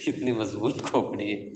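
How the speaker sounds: chuckle, then speak through it; laughing at your own exaggeration; amused laugh. Real, not acted. Laughs at own exaggerated skull joke. (ہنستے ہوئے)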